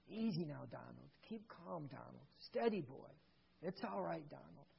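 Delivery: soft, gentle murmur; murmured gently. Retold or imitated. Father calming his fussing son in the aisle, murmuring gently. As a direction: soothe him softly under your breath. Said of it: "as he murmured gently".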